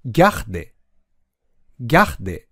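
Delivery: ギャで run together, French r breathed after ギャ; two syllables joined. Shown as a demonstration. Teacher modelling the last two syllables of regarder, joined up. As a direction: join ギャで into one low unit. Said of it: "だけをくっつけて".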